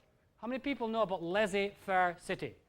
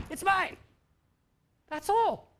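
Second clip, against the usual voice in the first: mock geek claiming; 11 semitones higher, 6 dB louder, slower than usual. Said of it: "some geek stands with a flag and goes".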